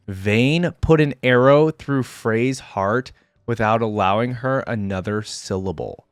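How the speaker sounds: slow, weighted climactic reading; dramatic story narration. A narrator's reading. Reader reveals Vayne killing Frey, dramatic narration. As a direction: land the twist deliberately, word by word.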